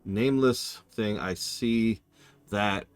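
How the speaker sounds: slow, measured read-aloud; letter reading. Acted. Reading a letter from the game, slow and measured. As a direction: read it out slowly, pausing between phrases.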